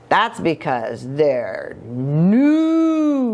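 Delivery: slow, drawn-out delivery of the last word; silly punchline. Acted. Jujubee telling the others why noodles are silly, drawn-out and cheeky.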